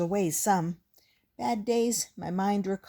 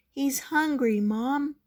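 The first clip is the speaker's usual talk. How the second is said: put-on child insisting; 8 semitones higher, 4 dB louder than usual. A narrator's reading. Child pleading with Mom.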